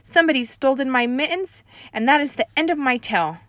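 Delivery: loud rushed nervous explanation; nervous kid. Acted. Junie B. explaining to the typing lady, rushed nervous. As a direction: rush through it to escape trouble. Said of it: "very nervous".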